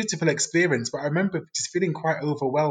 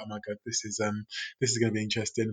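much softer, fast, under the breath; softer, quicker inner thought; wry muttered aside; 3 semitones lower, 6 dB quieter, faster than usual. Retold or imitated. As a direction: mutter it to yourself, half dreading. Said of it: "And I was just like".

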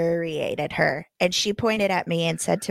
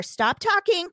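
higher, forceful stop talking; emphatic command; 9 semitones higher than usual. Retold or imitated. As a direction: snap the order at her. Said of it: "third time I've asked you".

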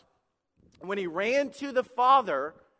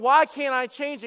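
louder, higher, slow mock complaint; frustrated whine; 6 semitones higher, 7 dB louder than usual. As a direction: whine at God, drawn out. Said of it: "sitting there going".

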